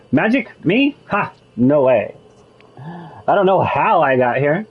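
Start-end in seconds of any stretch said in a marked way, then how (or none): 0.1-2.1 mock disbelief, pitch jumps up then drops; sarcastic. Shown as a demonstration. Player reading the dialogue option, sarcastic scoff. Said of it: "and this is sarcastic".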